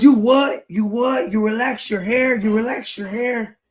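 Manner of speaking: high, mocking disbelief; retold teasing surprise; incredulous brother. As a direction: play the brother laughing at the idea. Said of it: "He goes".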